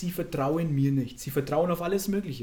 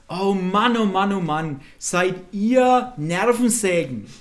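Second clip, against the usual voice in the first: mock exasperated groaning, loud and drawn out; Jesus, genervt gespielt; 7 dB louder, slower than usual. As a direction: play at being fed up with pests. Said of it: "was sagt der Herr Jesus". (gespielt genervt und laut stöhnend)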